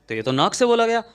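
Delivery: excited teacher's eureka; emphatic aha. Shown as a demonstration. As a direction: repeat it like you've cracked it. Teacher repeats the answer emphatically.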